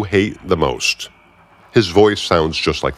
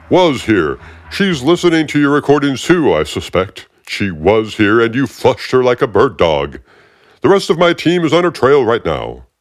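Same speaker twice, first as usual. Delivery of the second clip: higher, smug and needling; the smug agent's grating voice; aggravating Fishburne voice; 5 semitones higher than usual. Acted. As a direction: talk down to him like you own the room. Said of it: "that really aggravating voice".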